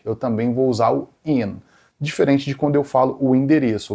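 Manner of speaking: normal talking voice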